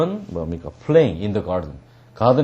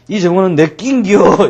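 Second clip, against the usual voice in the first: loud, high storybook-giant roar; giant bellow; 7 semitones higher, 6 dB louder than usual. Acted. Giant claiming the garden from children, bellowing.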